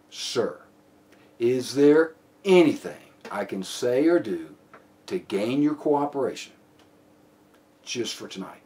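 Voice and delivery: slow appeal, long pause, then "Just for tonight" very soft and low; pause before last phrase. Shown as a demonstration. Officer offering suspect an out, pause before "Just for tonight". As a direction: leave a dot-dot-dot gap before a hushed "Just for tonight". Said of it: "A little pause, a little ellipsis there".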